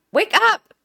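high, insistent retold cry; urgent wake-up call. Retelling shaking Dad awake at night, urgent call. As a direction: call out to rouse a sleeper.

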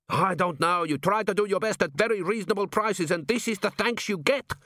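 high-pitched, mildly aggrieved complaint; hotly. A narrator's reading. Unappreciated cook grumbles at his customers, mildly hot. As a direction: complain with a touch of heat. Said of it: "said Gimlet hotly".

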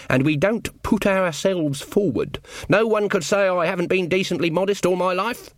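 prim village witch; stern old witch Granny. Acted. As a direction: sniff at the queen's airs. Granny Weatherwax voiced.

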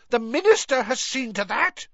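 high, loud bitter shriek. A narrator's reading. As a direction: spit out the accusation at the top of your voice. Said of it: "she shrieked".

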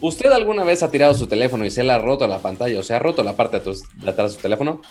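hammy late-night TV pitchman; 3 a.m. infomercial voice. Pretend. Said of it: "lo voy a hacer como infomercial de las tres de la mañana".

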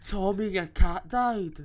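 slow, stunned, half laughing; can't believe what he just heard; shocked disbelief. Real, not acted.

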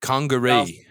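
Congaree said in a mock South African accent; a playful South African Congaree. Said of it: "with a South African accent".

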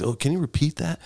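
light high quoted question; imitating himself.

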